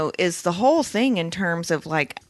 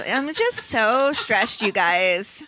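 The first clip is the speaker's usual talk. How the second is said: stressed guy voice; 2 semitones higher, much slower than usual. Retold or imitated. Podcaster mimicking Tamlin for her co-hosts, stressed guy voice. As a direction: put on a slow, stressed-out guy voice. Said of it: "this voice".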